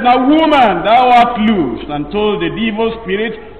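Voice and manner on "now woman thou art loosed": Jesus's command. Retold or imitated. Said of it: "he just said".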